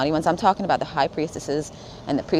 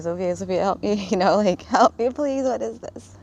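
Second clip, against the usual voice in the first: higher-pitched mock plea for help; retold tearful plea; 5 semitones higher than usual. Calling Sophia for help while upset, retold tearful plea. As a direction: act out begging for help, drawing out the please. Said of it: "But I was crying".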